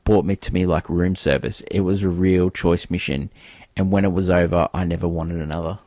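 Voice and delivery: low, measured voiceover read; voiceover narration. Acted. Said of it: "Willard with the voiceover goes".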